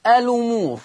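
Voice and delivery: الأمور as elumur, the hamza dropped; الأمور read with naql; transferred hamza. Shown as a demonstration. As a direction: slide straight into the ل of الأمور. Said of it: "الأمور تقرأ".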